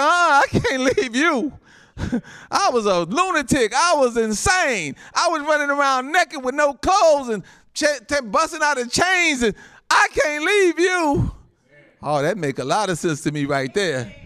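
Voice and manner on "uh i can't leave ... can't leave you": high, stretched-out fervent cry; impassioned plea. Acted. Preacher as delivered man to Jesus, impassioned plea. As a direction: testify with mounting urgency, acting the grateful man.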